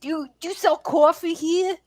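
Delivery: exaggerated high New York accent; hammed-up New York accent. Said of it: "New York accent".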